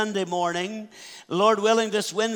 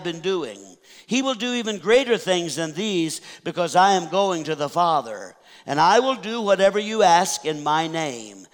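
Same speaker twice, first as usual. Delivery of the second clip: scripture reading. Acted. Reads the Scripture passage aloud.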